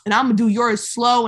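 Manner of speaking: loud, fast and eager; hyped-up doctor pitch. Retold or imitated. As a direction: sell it hard like a hustling surgeon. Voicing the doctor's sales pitch.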